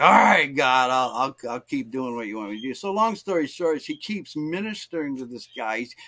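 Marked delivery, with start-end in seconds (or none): 0.0-2.7 loud start, then dropping and hurried; grudging surrender. Retold or imitated. Evangelist yielding to God's task, acted grudging resignation. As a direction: give in with mock reluctance.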